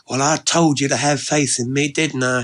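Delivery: lightly voiced Southern woman; a hint of playful I-told-you-so; Ellie Mae, pleased. Ellie Mae's dialogue.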